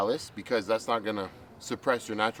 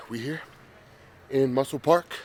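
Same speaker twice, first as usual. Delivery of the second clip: out of breath. Real, not acted. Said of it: "Sorry, I'm all winded".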